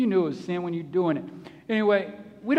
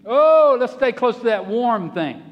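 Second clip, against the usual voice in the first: loud "Oh" then easing into a plea; eager exclaim; 5 dB louder than usual. Pretend. Israelites following the pillar of fire, eager at first. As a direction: grab at the warmth.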